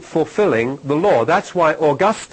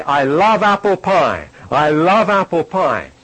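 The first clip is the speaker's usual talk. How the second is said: gushing a little, stress on love; mock enthusiasm; 2 semitones higher, 4 dB louder than usual. Preacher giving an everyday example of love, mock enthusiasm. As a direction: play up a fondness for food. Acted example of loving food.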